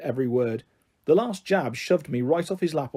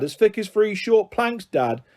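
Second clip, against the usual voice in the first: high, squeaky mimicry of a child's voice; mock her in a horrible squeaky voice; squeaky mocking imitation; 6 semitones higher than usual. A narrator's reading. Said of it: "horrible, high, squeaky imitation of my voice".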